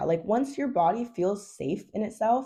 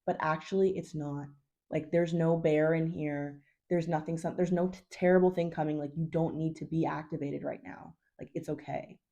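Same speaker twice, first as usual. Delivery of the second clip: reassuring. Shown as a demonstration. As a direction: calmly promise there's no danger. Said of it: "And then reassure them and be like".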